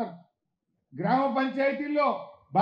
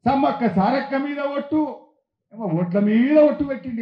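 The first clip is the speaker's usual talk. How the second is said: louder, slower, stacking each oath with heavy weight; mocking the chief minister's oaths; 5 dB louder than usual. Speaker mocks the chief minister's oath list, loud and slow. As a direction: parody the CM swearing by every god. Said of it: "అడిగితే ఏమన్నాడు?".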